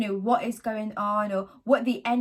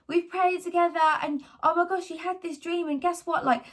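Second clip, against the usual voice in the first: son's excited voice; 6 semitones higher than usual. Retold or imitated. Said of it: "he was like".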